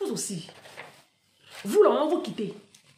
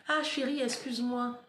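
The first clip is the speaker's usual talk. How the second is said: petite voix douce d'excuse, imitée; excuse jouée; 6 dB quieter than usual. Acted. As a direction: demande pardon tout bas, en jouant le mari. Joue le mari qui s'excuse. (excuse feinte, à voix basse)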